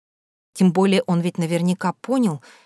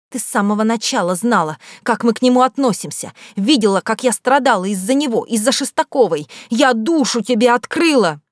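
high, loud hurt accusation; girl furiously arguing with her ex-friend; quarrel; 5 semitones higher, 4 dB louder than usual. Acted. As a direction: throw it at the friend who turned on her. Schoolgirls quarrel in the corridor.

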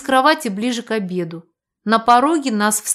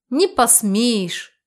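ordinary delivery

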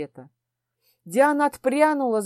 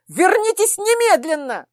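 ringing with fury; 9 semitones higher, 5 dB louder than usual. Acted. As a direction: order him back in open rage. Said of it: "Мой голос зазвенел от ярости".

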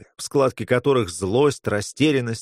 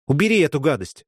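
higher-pitched mild cry of disgust; 6 semitones higher, 3 dB louder than usual. A narrator's reading. Girl at the sight of the stone, crying out. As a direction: cry out to get it away. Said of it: "выкрикнула она".

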